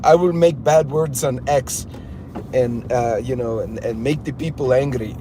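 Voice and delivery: lightly mocking Russian-troll accent; imitated Russian accent. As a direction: mimic a Russian kid with broken English. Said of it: "some Russian kid drinking vodka going".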